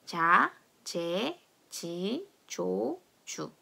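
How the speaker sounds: "자, 제, 지, 조, 주" spaced for repeating, English-like j; J drill. Shown as a demonstration. Teacher leading a read-along, separate j syllables "자, 제, 지, 조, 주". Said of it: "다 같이 한번 읽어보겠습니다".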